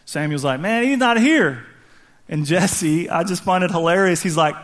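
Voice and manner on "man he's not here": mildly baffled protest; mock disbelief. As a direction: stretch it out like a puzzled objection. Acting Samuel's reaction to the sons.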